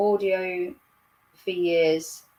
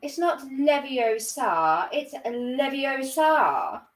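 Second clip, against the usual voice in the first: prim correction; 4 semitones higher, much slower than usual. Acted. Quotes a film's pronunciation correction.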